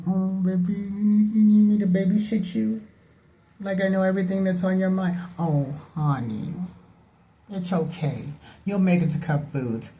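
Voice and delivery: put-on high, cooing babying voice; mock baby talk. Soothing the confused older lady like a toddler, high and cooing.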